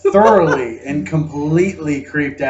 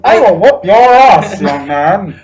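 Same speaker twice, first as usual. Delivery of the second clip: put-on old time radio voice; 5 dB louder, slower than usual. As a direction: scold like a crotchety granny. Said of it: "talking like we're on old time radio".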